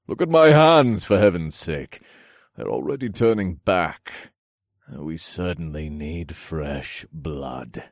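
hungry monster voice; creature voice. A narrator's reading. Monster complains then threatens.

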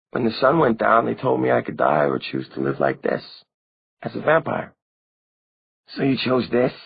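put-on a dead girl blaming the one who never came; young vampire girl Maureen, reproachful. A narrator's reading.

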